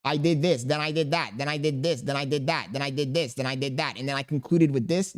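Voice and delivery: flat, mock rundown; mocking a story told as a list; bullet-point listing. Shown as a demonstration. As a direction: rattle it off like a checklist, fading. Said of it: "telling them what happened as a list".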